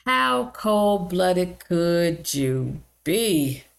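"How cold-blooded could you be?" drawn out very slowly; appalled. Real, not acted. Condemning the caregiver, slow and appalled. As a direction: stretch every word in disbelief. Outraged rhetorical question.

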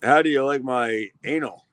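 mildly mocked terrible European accent; lightly put-on bad European accent; Jason's accent. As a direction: toss off a poor attempt at a European accent. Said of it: "this fucking accent is terrible".

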